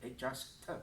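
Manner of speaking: "Adjust", then a short separate "T"; T not stretched. Shown as a demonstration. Teacher warning against stretching the T, short T. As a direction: add a brief T after "Adjust" without drawing it out. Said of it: "do not stretch the T".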